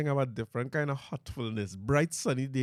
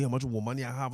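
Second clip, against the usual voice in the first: ordinary talk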